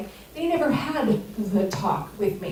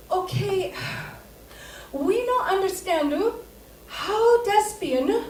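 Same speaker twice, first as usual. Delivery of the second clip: put-on high, slow accented old lady voice without L sounds; mock accented elderly aunt; imitating aunts' accent; 9 semitones higher, slower than usual. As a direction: say lesbian without the L, slowly and up high. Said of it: "remember they can't say L's".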